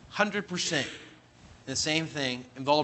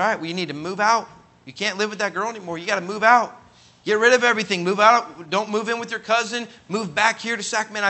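raised, insistent string of orders; urgent instruction; 5 semitones higher, 5 dB louder than usual. Retold or imitated. Pastor telling young man to change, urgent. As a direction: press each order home firmly.

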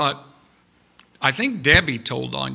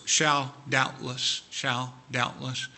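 soft, slow repetition; 2 semitones lower, 6 dB quieter, slower than usual. Acted. Repeats key words softly.

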